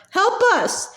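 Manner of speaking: a desperate cry to a magic mirror; desperate yell. A narrator's reading. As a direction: call out in mad desperation. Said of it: "he yelled at it in, in mad desperation".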